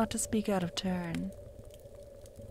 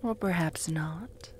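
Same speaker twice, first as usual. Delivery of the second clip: whispered; 4 semitones lower, 6 dB quieter than usual. Acted.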